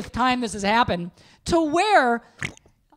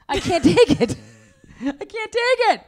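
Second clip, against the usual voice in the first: exasperated; 5 semitones higher, 4 dB louder than usual. Real, not acted. Wife venting exasperation at husband.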